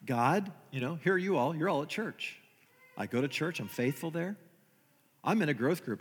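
lightly voiced self-pitying prayer; complaining prayer. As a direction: plead with God like a hurt, dutiful churchgoer. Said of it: "We all do this".

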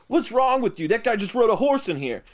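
high-pitched mock indignation; incredulous guard. Second security guard scolding his colleagues, incredulous.

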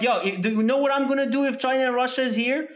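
fired up. Retold or imitated. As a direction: declare it like a soldier. Fired-up declaration.

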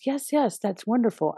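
mock chorus of polite approval; forced agreement.

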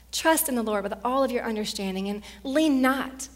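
loud, ringing scripture proclamation; full-force preaching. Acted. Pastor reading scripture over the congregation, loud preaching. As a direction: declare the promises over them.

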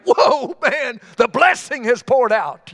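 mock chicken, thrilled at the feast; excited chicken. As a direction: squawk it out like a stuffed happy hen. Chickens voiced gorging on feed.

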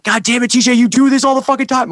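mock-annoyed tour manager telling him off. Tour manager catching him eating their food, annoyed imitation. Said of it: "was annoyed".

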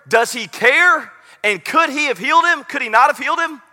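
doubt crying out to God; anguished questioning. Retold or imitated. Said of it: "it was this moment".

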